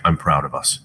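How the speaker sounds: soft, quiet, sincere; quiet quote. Retold or imitated. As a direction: say it softly, moved. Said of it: "just be like".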